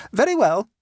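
high and loud, a quick agreement; the relieved mother settling it at once; brisk mother. Acted. Mother agreeing with her son, high and brisk.

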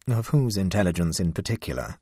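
cold. Acted. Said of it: "asked Tobermory coldly".

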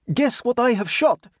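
put-on high, excited young huntsman; excited demand. Radiant boy back from shooting, excitedly demanding. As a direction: demand a guess, proud and eager. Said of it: "he demanded".

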